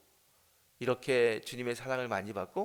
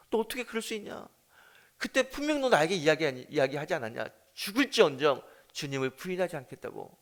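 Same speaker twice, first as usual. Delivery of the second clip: imagined rebuke; 3 semitones higher, 4 dB louder than usual. Pretend. Preacher imagines Jesus rebuking Peter.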